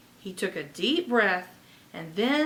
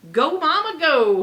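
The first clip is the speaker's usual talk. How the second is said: louder, higher excited shout; 6 semitones higher, 8 dB louder than usual. Acted. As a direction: cheer it out while dancing. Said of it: "he shouted".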